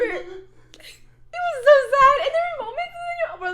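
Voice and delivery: high, breathless laughing whisper; wheezing laugh. Real, not acted. Recalling crying at a sad movie, wheezing with laughter. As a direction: laugh so hard the voice vanishes.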